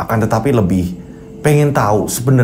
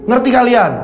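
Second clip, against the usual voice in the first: stern calming; 8 semitones higher than usual. Acted. Headman calming then commanding.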